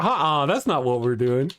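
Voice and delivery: lightly acted objection; retold refusal. Host retelling his reply to Bible study, mock refusal. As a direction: turn it down in a mock protest. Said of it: "And I'm like".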